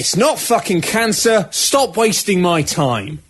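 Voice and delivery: slow, high blunt doctor voice; gruff doctor. Pretend. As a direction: bark it like a rude doctor. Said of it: "Doctor Badass would say".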